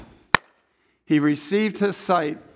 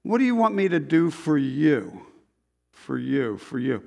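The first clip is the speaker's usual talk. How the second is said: tender question; 3 semitones lower than usual. Acted. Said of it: "What if Jesus stood here and asked you that".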